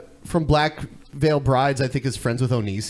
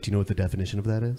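imitating Onision; 4 semitones lower, 6 dB quieter, much faster than usual. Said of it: "he'll be like".

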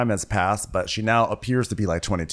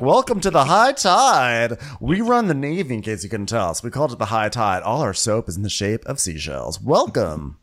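showy hotel host. Acted. Hotel welcome parody.

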